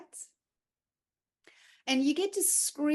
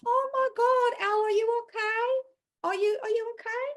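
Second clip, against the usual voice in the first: mock worried friends; 9 semitones higher, 3 dB louder than usual. Friends fussing over a falling-apart Elle, high and gushing. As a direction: play the fussing friend, pitched way up. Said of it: "I want people to go".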